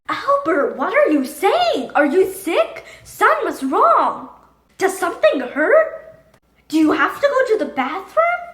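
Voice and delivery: put-on a mother fretting over her silent boy; fussing mom, rising worry; worried mother. Worried mother questions her son.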